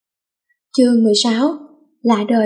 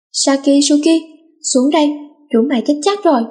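angry yell; 4 semitones higher than usual. Acted. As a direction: yell them down the stairs in a fury. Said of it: "tức tối hét ầm lên". (hét ầm lên tức tối)

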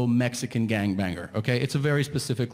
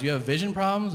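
higher, incredulous question; doubtful doctor; 7 semitones higher than usual. Retold or imitated. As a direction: ask it in disbelief. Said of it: "And he goes".

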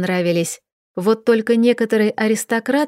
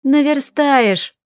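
reassuring; 5 semitones higher, much slower than usual. A narrator's reading. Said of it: "уверила меня подруга".

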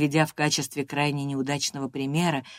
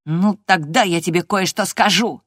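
gloating; 3 semitones higher, 7 dB louder than usual. Acted. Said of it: "злорадно заявил Линтон".

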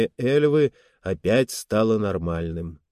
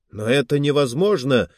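shout; 3 semitones higher than usual. Acted. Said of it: "выкрикнул шеф-инженер".

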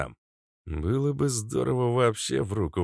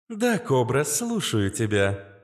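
sweet, higher AI voice; angelic little voice; 5 semitones higher, slower than usual. Acted. AI ex answers Kobra, angelic higher voice. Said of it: "ангельский голосок моей бывшей".

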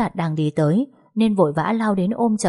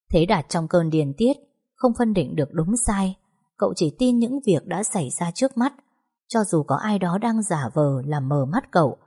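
usual speaking voice

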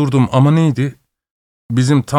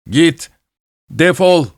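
higher, sharp angry order to get out; angry shout; 6 semitones higher, slower than usual. Acted. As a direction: throw him out furiously. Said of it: "kızgın bir sesle bağırdı".

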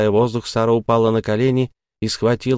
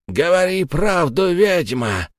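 higher, sharp demand; ghost's angry shout; 9 semitones higher than usual. Acted. Ghost Tom shouts at the witch to confess. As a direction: force the truth out of her. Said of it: "закричал он".

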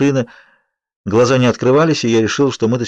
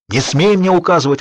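angry yelling; 7 semitones higher than usual. A narrator's reading. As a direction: bellow back at being ordered. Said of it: "орал Чарли".

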